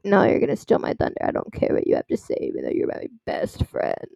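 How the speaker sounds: imitation of an unreasonable bride; mock bride. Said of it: "the bride over here is just like".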